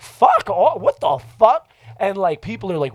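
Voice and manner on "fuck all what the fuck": high, loud startled protest; retold alarm. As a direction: act out being suddenly grabbed. Retells being grabbed by strangers.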